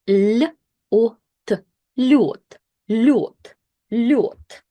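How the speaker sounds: "l", "o", "t" apart, then blended into "лёд"; "лёд" with softened l straight into o; soft l, no y. Shown as a demonstration. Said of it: "loses this kind of like y sound".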